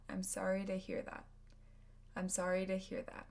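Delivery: I'm sorry to hear that run together quickly; fast speech. Shown as a demonstration. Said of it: "with fast speech".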